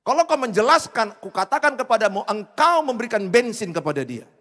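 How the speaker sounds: seruan khotbah yang keras; preaching. Acted. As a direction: peringatkan jemaat dengan lantang. Preaching at full force. (khotbah berapi-api dan keras)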